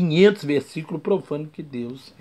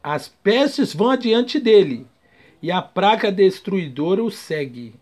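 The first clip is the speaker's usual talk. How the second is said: preaching scripture; 4 semitones higher, 5 dB louder than usual. Acted. Preacher reading the plague verse to the church, proclaiming. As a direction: thunder it out like a prophet.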